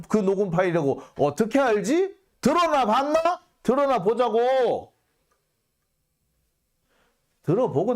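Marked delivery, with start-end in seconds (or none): 2.4-4.9 high, sarcastic challenge; rising outrage then slower; indignant scoff. Real, not acted. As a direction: demand to hear it, mocking. Ranting at prosecutors.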